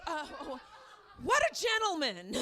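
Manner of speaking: a laughing, mock-impressed shout of what a gentleman; sarcastic laughing exclamation. Comic to the audience about the naked man, sarcastic laughing shout.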